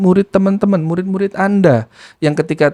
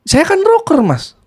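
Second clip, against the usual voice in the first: very high swoop on "rocker", then dropping; imitated self-declared rocker; 9 semitones higher, slower than usual. Nephew answering why he yells, imitated high. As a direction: mimic him, leaping up on "rocker". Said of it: "jawabannya begitu".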